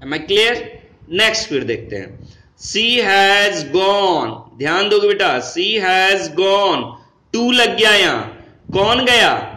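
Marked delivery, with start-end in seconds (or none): 2.6-4.3 slow dictation. Shown as a demonstration. Teacher reads example sentence. 5.5-6.9 slow dictation. Shown as a demonstration. Teacher repeats example sentence.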